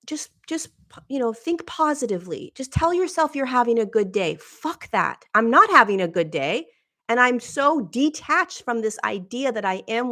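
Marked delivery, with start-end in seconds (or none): 0.1-4.4 high, preachy sing-song parody; mock positive-thinking advice. Mocking advice to think positively, high and preachy. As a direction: mimic the think-positive crowd, pitched up. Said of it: "Not like".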